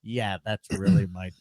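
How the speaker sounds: low, soft, deflated aside; sheepish admission. Retold or imitated. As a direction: own up quietly to the audience. Comic's deflated admission to the crowd.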